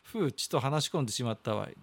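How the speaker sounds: lightly voiced old man reading a letter; a hint of an old grandpa holding court; creaky wise old man. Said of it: "中の人格が出てまして".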